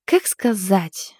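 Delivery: slow, sulky grumble; mildly grumpy, dragging the words; grumbling displeased. Acted. Cook admits to her friend the chicken failed, mildly sulky grumble. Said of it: "недовольно буркнула она".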